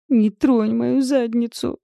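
high, slow howling protest. Acted. Client howls at the masseuse, high and slow. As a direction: wail it out. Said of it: "взвыла я".

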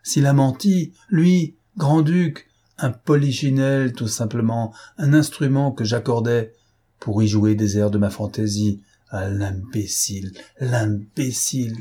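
« S'il a menti » lancé plus haut et plus fort; s'écrie avec rage. Acted. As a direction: rage méprisante qui retombe lentement. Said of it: "s'écria Lupin". (colère de Lupin contre l'imbécile)

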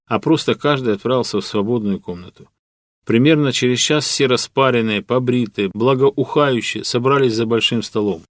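ordinary delivery

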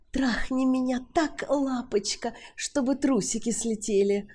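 woman seducing a nervous man; seductive Sally. A narrator's reading. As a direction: purr it at him.

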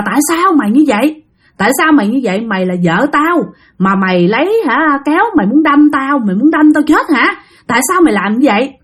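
mildly heated, rapid-fire questions; indignant husband demanding answers; angry scolding. Acted. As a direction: scold your wife in disbelief, voice rising a little. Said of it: "bạn có chửi rằng".

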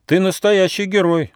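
high-pitched praise; admiring squirrel. A narrator's reading. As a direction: exclaim in a high little voice.

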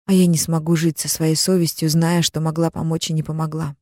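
ordinary delivery

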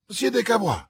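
high, emphatic name reveal; eager announcement. A narrator's reading. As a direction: drop the name like news.

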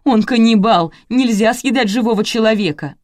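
worked-up nervous outcry; agitated dismay. A narrator's reading. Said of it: "занервничала свекровь".

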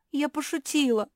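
high startled cry; frightened. A narrator's reading. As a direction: take it back in a panic. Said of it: "испугалась Куки".

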